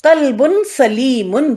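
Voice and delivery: قلب سلیم drawn out; slow recitation. Shown as a demonstration. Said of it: "قرآن ہی کے الفاظ". (آہستہ تلاوت)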